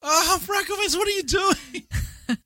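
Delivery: very high, drawn-out playful lament; mock dismay. Spectator to Freckleface mid-game, hammed-up dismay. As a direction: wail it slowly at a hopeless player. Acts out watching friend's dismay.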